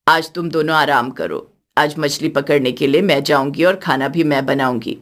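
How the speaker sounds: put-on a gentle older woman speaking from the heart; elderly mother-in-law.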